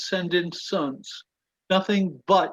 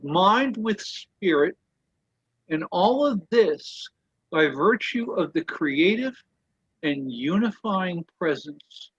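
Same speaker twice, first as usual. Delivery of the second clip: slightly raised, measured reading voice; reading aloud. Acted. The speaker reading a quote to the study group, measured and deliberate.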